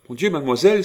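high, loud shocked exclamation; indignant outcry. A narrator's reading. Old lady confronting the departing young woman, indignant outcry. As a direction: cry out in scandalised indignation. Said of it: "s'écria-t-elle".

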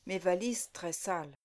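mumbled. A narrator's reading. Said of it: "marmonna Élodie".

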